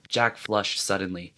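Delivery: usual speaking voice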